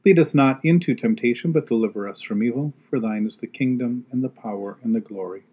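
prayer. Acted. Leads the prayers.

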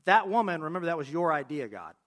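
Adam pointing the finger back at God; blame shifting. Retold or imitated. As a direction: push the blame onto God, loud and indignant. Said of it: "it's complete blame shifting".

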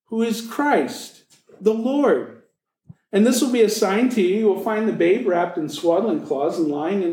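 measured, reverent Bible reading; reading Luke to the congregation, reverent; scripture reading. Acted. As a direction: read the Christmas passage with reverence.

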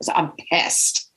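breathy unvoiced whisper of I'm pissed; whispered aside. Reliving road rage, she whispers it to herself. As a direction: drop to a whisper on the repeat.

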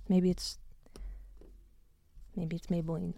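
breathy whispered jingle aside; whispering. Real, not acted. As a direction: whisper the slogan like a secret.

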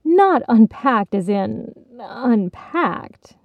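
slow, with weight on the last "unpacked"; careful clarification leaning on "unpacked"; soothing clarification. A narrator's reading. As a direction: draw out the second "unpacked" meaningfully. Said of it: "Gourmet Pretzels soothed".

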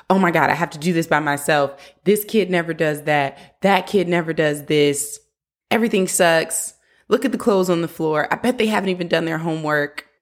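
mock rage-cleaning rant. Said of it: "the parent that is, like, rage cleaning".

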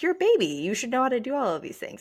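high, pushy mock scold; playful mock parent talking to a newborn; mock demanding voice. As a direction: scold the baby as if it should know better. Mock voice of baby expectations.

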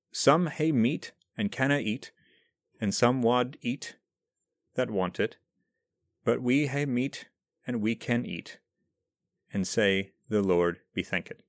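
reciting the Selkirk Grace with a clumsy attempt at Scots pronunciation, hae and canna and wad; a non-Scot gamely reading Scots verse aloud, a bit unsure of the words; attempted Scots recital. Shown as a demonstration. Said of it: "Please forgive my horrible pronunciation".

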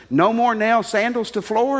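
lightly voiced Korean houseboy in broken English; a hint of a Korean teen's broken English. Korean houseboy asks the officers, lightly voiced broken English. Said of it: "He spoke broken English".

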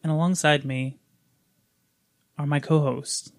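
composed host, long deliberate pauses; professional host intro. Real, not acted. Host introducing his co-hosts, stiffly professional and measured. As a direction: introduce yourself formally, pausing between phrases. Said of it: "trying to take a professional approach".

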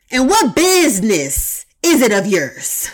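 measured, preacherly Farrakhan impression; a hint of a Nation of Islam sermon. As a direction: deliver it like a stern minister from the pulpit. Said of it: "In my Farrakhan voice".

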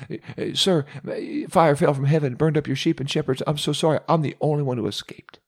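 high, stammering, frightened report; a shaken messenger blurting it all out; panicked servant. Acted. The second servant tells Job the fire fell from heaven, in a panic.

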